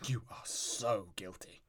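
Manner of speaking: hushed whispered aside; whispering. Acted. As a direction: whisper it under your breath. Aside to audience, unvoiced.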